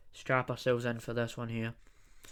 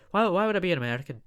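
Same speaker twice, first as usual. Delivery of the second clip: mock outrage; 5 semitones higher, 6 dB louder, much faster than usual. Mock indignant outburst.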